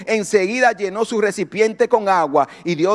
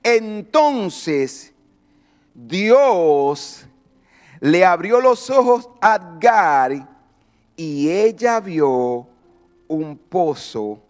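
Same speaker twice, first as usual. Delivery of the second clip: slow, phrase by phrase, sinking lower; solemn scripture reading; 6 semitones lower, much slower than usual. Retold or imitated. Preacher reading how God opened Agar's eyes, solemn and slow. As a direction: let long pauses build the reveal, then settle low. Preacher reads verse with dramatic pauses.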